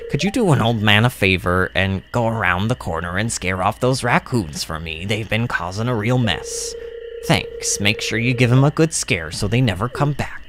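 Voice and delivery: lightly voiced old man, pitched low; a hint of a low old man's voice; low character voice asking a favor; Willie. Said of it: "that really just sounded like Willie's voice".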